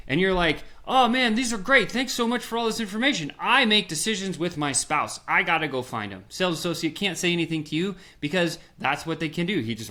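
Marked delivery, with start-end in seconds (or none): 0.9-6.3 much higher, gushing polite exit; butter him up to get away; fake-grateful customer. Customer faking gratitude to leave.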